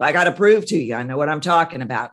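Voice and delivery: pushy, rushed show-off delivery; proving mask voice. Shown as a demonstration. Coach demos the needing-to-prove mask, pushy and rushed. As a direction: sell it like you must prove yourself. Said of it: "when I start talking like this".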